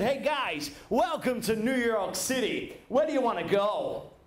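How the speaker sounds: put-on a light American accent, taxi driver. New York taxi driver welcoming tourists, in an understated American accent. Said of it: "It's my American accent".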